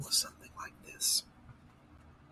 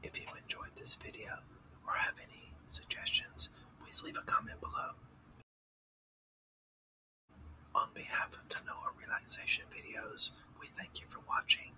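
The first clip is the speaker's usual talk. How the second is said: whispered outro; 2 semitones lower than usual. Real, not acted. Thanking viewers of the relaxation channel, whispered. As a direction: keep the ASMR whisper for the sign-off.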